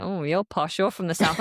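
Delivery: put-on northern English accent. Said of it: "go to the north".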